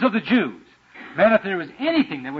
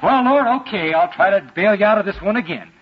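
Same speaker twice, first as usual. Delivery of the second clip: mock resigned sigh to God; 3 semitones higher, 3 dB louder than usual. Resigned offer to God voiced.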